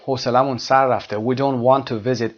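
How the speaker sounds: slow exercise read. Shown as a demonstration. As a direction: read each word slowly for learners. Reads exercise sentence slowly.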